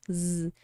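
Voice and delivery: soft sustained buzzing zzz; isolated Z sound. Shown as a demonstration. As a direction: demonstrate a voiced z on its own. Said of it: "tem esse sonzinho de Z". (sonzinho de Z prolongado)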